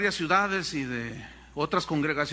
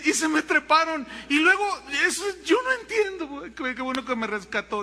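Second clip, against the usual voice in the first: put-on girl in disbelief; 7 semitones higher than usual. Girl's voice.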